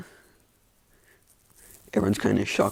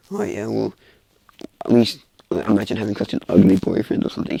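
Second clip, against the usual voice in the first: taunting insult; 10 dB louder than usual. Acted. Acted taunt at opponent.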